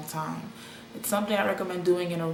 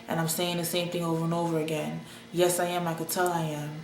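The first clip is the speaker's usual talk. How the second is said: monotone voice. Retold or imitated. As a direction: repeat it flat, no tune. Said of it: "I'm talking in a monotone voice".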